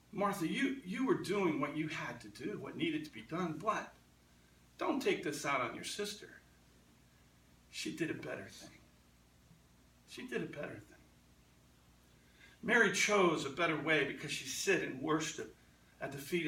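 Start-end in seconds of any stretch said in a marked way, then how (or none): 0.1-10.9 softer, gentle correction. Retold or imitated. Jesus correcting Martha, softer and gentle. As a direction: ease her down kindly. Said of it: "he did it with care and, and gentleness".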